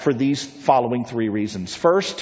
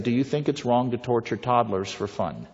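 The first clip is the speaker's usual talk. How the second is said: softer, lower, gentle asking; gracious question; 4 semitones lower, 6 dB quieter than usual. Retold or imitated. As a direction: ask it kindly, no edge. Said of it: "Very graciously".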